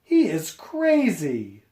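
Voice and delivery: storybook villagers jeering, lightly acted. A narrator's reading. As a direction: taunt him as a crazy man. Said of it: "the people jeered".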